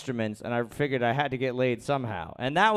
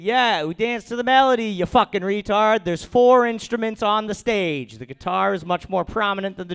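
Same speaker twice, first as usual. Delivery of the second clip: much higher, louder indignant outburst; mock angry rant; 8 semitones higher, 7 dB louder than usual. Comic defending a band's fans to critics, loud indignant rant. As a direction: blow up at the critics.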